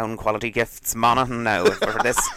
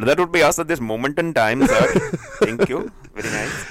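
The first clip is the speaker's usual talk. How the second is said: put-on Indian English accent, pitched up; 5 semitones higher, 3 dB louder than usual. Asked to translate a phrase in an indian accent, answering: indian accent. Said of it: "translate it in an Indian accent".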